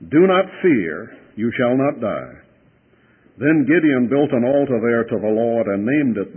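solemn Bible reading; scripture reading. Acted. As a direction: read the passage to the congregation. Preacher reads scripture aloud.

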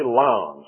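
lion said plainly as "lahn"; Southern pronunciation. Shown as a demonstration. Preacher settling on his own way, Southern one-syllable lion. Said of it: "I'm just gonna say".

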